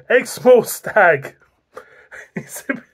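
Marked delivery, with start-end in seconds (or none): none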